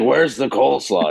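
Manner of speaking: a hint of a gruff period butcher accent; Bill the Butcher voice. Method actor at the craft table in Bill the Butcher voice. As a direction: lightly growl it like Bill the Butcher in character. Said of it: "talking like Bill the Butcher".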